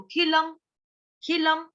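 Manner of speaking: खिलम with lips closing sharply on the final म; lips shut on म. Shown as a demonstration. Teacher showing the halant ending. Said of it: "म जैसे ही complete होगा होठों को बंद कर देना".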